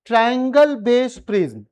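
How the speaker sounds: each word drawn out very slowly; slow dictation. Shown as a demonstration. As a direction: spell it out slowly for the class to write down. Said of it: "dictating the name slowly".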